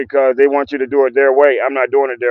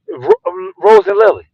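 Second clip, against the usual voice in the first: sharp call; 7 semitones higher, slower than usual. Real, not acted. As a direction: snap the dogs' names out. Sharp call at licking dogs.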